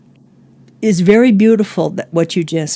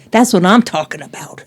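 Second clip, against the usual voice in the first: modern slang. Shown as a demonstration. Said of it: "We might say in the modern language".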